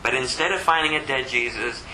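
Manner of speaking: ordinary talk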